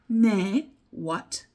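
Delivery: normal talking voice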